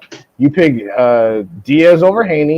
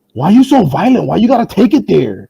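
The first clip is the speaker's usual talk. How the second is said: higher, whiny mock victim; mock whiny complaint; 6 semitones higher than usual. Mocking people who call him crazy and violent. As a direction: whine it like the accused. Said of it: "'Cause apparently I'm crazy".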